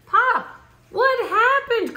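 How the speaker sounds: put-on a child crying out in alarm at a missing tree. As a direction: build up to an upset cry to Pop. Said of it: "cried Junior".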